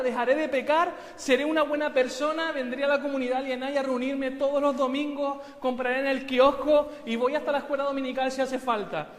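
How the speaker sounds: loud, high begging with laughter breaking in; desperate pleading. Acted. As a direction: beg God loudly to be saved. Jack suplica a Dios. (súplica desesperada y fuerte)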